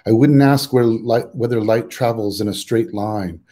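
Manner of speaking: measured poem recital, phrase by phrase; poetry reading. Acted. Poet to festival audience, opening with own poem, measured recital. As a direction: read it as a poem, pausing between phrases.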